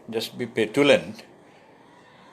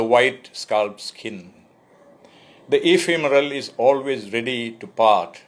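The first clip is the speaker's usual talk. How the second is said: poetry reading. Acted. Poet reading his poem to an online audience, measured and full. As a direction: read each image out with weight.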